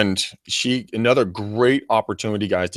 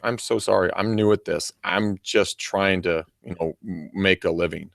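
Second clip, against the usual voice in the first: soft, sincere apology, fading quieter; 3 semitones lower, 4 dB quieter than usual. Shown as a demonstration. New agent apologizes humbly to an angry homeowner, soft and sincere. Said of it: "be legitimate".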